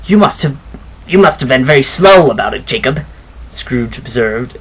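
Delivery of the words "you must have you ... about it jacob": businesslike. Acted. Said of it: "in a businesslike manner".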